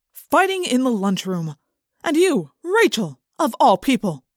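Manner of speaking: stern principal. A narrator's reading. Principal scolding Rachel in his office, slow stern reproach. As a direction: drag out the disappointment. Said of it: "Chapman glared at us".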